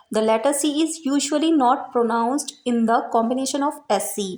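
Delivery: slow, clear reading of a rule; dictating a grammar rule; slow rule dictation. Shown as a demonstration. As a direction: read it out slowly for students to note down. Reads rule slowly.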